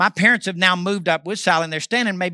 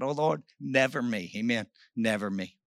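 hushed vow; 7 semitones lower, 9 dB quieter than usual. Real, not acted. Quiet fervent vow.

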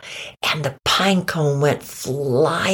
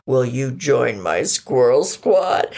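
slow, formal invitation in character; squirrel leader; 3 semitones lower, slower than usual. Acted. Sammy invites Buffy into the squad, solemn leader voice. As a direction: make a drawn-out, important offer.

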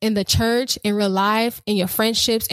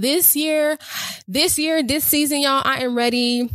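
fired up; 5 semitones higher than usual. Real, not acted. Hyped announcing her new season.

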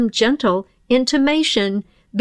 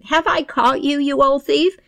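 put-on gloating old dame; 2 semitones higher than usual. Dame confronts the pixie thief.

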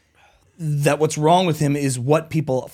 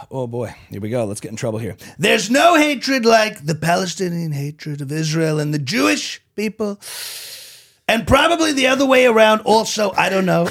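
Trump voice reading statement. Pretend. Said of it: "Do it in the voice".

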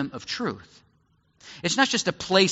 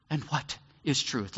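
pondering question; 2 semitones lower, 6 dB quieter than usual. Retold or imitated. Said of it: "in some of the movies we see Pilate go".

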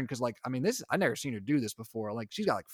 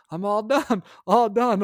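high, loud mock toddler call; toddler announcing she's done; 8 semitones higher, 7 dB louder, slower than usual. Toddler in her high chair to dad, insistent. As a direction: imitate a toddler demanding out, pitched up. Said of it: "doing the all done symbol".

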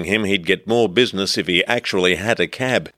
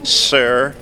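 higher, formal official's voice; baggage staffer; 5 semitones higher than usual. Acted. Baggage staffer asks passenger to declare items, officious and higher. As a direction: put on an officious airport voice, pitched up. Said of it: "The baggage staffer's voice broke in".

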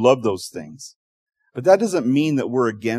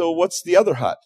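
curious rescuer; 6 semitones higher, 4 dB louder than usual. Acted. Rescuers ask about third hut.

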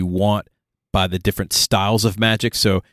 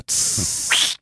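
sizzle sound. Shown as a demonstration. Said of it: "Like a squelch and a".

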